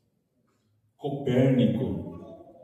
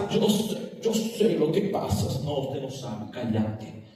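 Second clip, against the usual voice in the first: grieving retort; 4 semitones lower than usual. Retold or imitated. Voicing a grieving family member.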